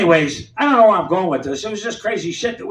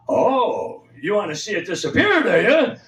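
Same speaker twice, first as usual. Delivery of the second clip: sarcastic comeback. Retold or imitated. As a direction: toss her line back at her mockingly. Teen sassing back at lunch lady.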